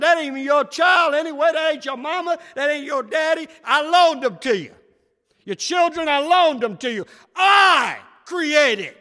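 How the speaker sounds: God's voice, rising to a crying shout at the end; the preacher gives God's voice, building to a tearful shout; voicing God. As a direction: preach God's rebuke, breaking into a cry. Preacher voicing God rebuking grief.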